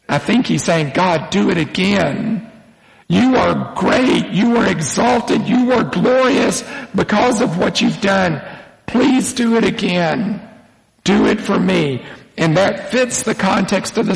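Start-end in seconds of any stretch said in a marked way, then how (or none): 0.9-12.0 higher-pitched acted plea to God; lightly acted, praise-filled pleading; earnest request. David asks God to do it again, earnest request. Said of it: "but makes a request".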